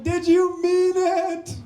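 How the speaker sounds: high, drawn-out hopeful question; squeaky-high, lingering plea; hopeful calling out. Acted. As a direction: call it after him, high and stretched. Flattered man calls after heckler.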